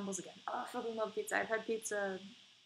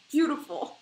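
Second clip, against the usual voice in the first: loud mock gush; 5 semitones higher, 9 dB louder, slower than usual.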